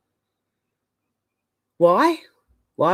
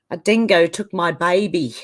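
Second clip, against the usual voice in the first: mimicked Australian accent. Host quotes Elaine from Seinfeld, mimicked Australian accent. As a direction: imitate Elaine's attempt at Australian, stretched out. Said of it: "trying to mimic the Australian accent".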